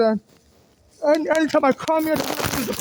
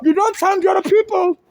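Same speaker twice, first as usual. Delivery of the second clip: indignant shout; 4 semitones higher than usual. Real, not acted. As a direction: throw the complaint at the guard. Protesting unfair treatment to guard.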